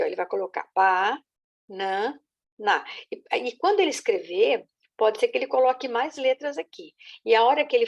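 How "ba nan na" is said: banana split into ba, nan, na with a pause before each part; syllable by syllable. Shown as a demonstration. Teacher imitating a child reading banana syllable by syllable. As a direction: break banana into three slow beats, ba nan na. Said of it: "deixa eu ver se eu coloco aqui".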